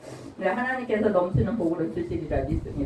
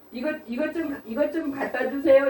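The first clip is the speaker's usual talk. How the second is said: light mock request, pitched up; higher casual asking voice; 6 semitones higher than usual. Strong person casually asking someone to fetch it. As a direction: ask offhand for something.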